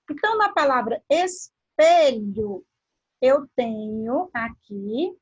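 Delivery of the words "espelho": espelho split after es, loud PE; stress on middle syllable. Shown as a demonstration. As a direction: hit the pe in espelho hard. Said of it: "está pronunciada com mais intensidade".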